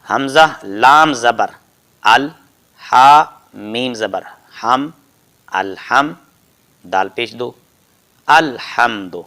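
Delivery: slow, deliberate letter-by-letter recitation; each letter name drawn out, then the joined syllable; slow spelling drill. Shown as a demonstration. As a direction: spell it out slowly for a child. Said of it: "اور جوڑ یوں کرتے ہیں".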